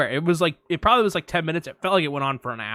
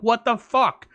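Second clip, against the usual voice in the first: shocked; 7 semitones higher, 3 dB louder, slower than usual. Retold or imitated. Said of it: "And I'm like".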